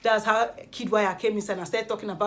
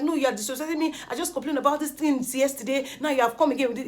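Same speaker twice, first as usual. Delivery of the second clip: higher-pitched, aggrieved retort; indignant complaint; 4 semitones higher than usual. Retold or imitated. Erica answering Kid back about disrespect, indignant. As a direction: complain like someone who has had enough.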